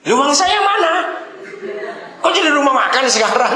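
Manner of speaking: high-pitched comic indignation; mock angry customer. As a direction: play an outraged depositor, voice shooting up. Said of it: "Kenapa marah?".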